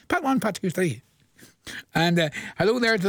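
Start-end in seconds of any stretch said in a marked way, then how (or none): 0.1-1.0 fast tongue twister. Shown as a demonstration. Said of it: "Try and say that fast".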